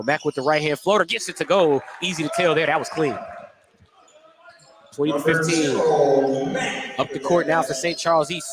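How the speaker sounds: brisk courtside call of the action; steady announcer's game call; live play-by-play. Acted. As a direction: call each pass as it happens.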